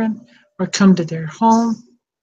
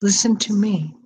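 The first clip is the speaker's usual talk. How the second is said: gentle. Retold or imitated. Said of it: "really gently".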